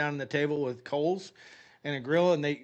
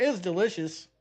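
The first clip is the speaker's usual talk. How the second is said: higher, hastily approving; quick change of tone; 4 semitones higher than usual. Retold or imitated. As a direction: backpedal into cheerful approval. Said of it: "I changed my tone really quick".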